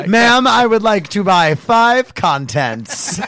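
slow, lightly done British shopper; mock British accent. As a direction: order politely in a put-on British accent. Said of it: "was my accent decent?".

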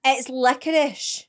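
"licorice" said slowly, ending sh; slow deliberate licorice. Shown as a demonstration. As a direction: draw out "licorice" with a sh at the end. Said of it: "Where's the S H?".

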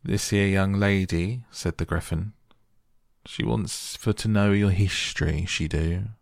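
gruff griffin, pushing forward; raspy voice with eagle shrieks. Acted. Griffin introduces Alice.

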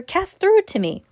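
very high, loud panicked cry; panicked plea. A narrator's reading. Boy fleeing the mummy, crying out high in panic. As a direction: beg breathlessly while running.

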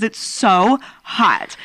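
dramatically drawn-out complaint; dramatic. Real, not acted. Friend venting about a hot bedroom, mildly dramatic. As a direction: lean heavily into the misery. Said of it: "I'm being so dramatic".

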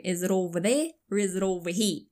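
mimicked Southern accent, dropped r's; teasing Southern accent. Daughter teasing dad back, mock Southern accent. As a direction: lightly put on a thick Southern accent. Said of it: "So I started being like".

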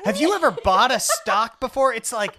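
mocking impression. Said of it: "This is the most ridiculous story I've ever heard".

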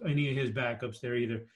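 coughing, throat catching on smoke; choking a little from smoky air. Real, not acted. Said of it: "I'm choking a little here because my house is a little smoky".

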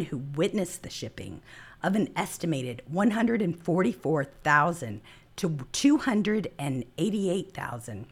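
hoarse, fading voice; losing voice. Real, not acted. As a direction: voice giving out, raspy. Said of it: "Sorry, I'm losing my voice".

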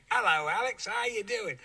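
mock the stuntman flubbing his posh accent a second time; the stuntman's retake, still not posh English; the stuntman botching it again. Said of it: "the guy does it again".

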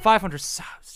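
repeating "Five hundred subs" in mild disbelief; disbelieving repeat. Real, not acted. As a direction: echo the number as if it can't be true. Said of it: "Jesus Christ".

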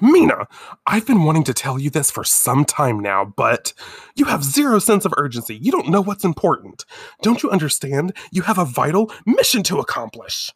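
a touch of reproach; mild acted scolding. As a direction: lightly play a nagging mentor pleading urgency. Artemis scolds Mina in retold quote.

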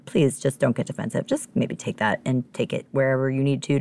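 mild, careful request; very nicely. Real, not acted. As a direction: gently put plea. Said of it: "very nicely".

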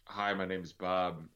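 drawn out, each word spaced; slow deliberate intro. Shown as a demonstration. Introducing himself slowly as a palindrome. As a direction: say your name slowly, savoring it. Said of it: "forwards and backwards".

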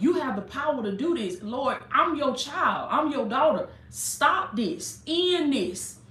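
pleading high and raw, voice climbing; retold desperate plea. Preacher retelling her cry to God, desperate high plea. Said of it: "I remember crying out to God saying".

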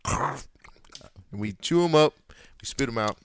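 news anchor voice. Shown as a demonstration. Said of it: "trying to say it in my news anchor voice".

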